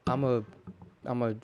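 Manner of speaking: stumbling, stuttering start. Real, not acted. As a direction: trip over the first words with a stutter. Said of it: "that was a horrible stutter".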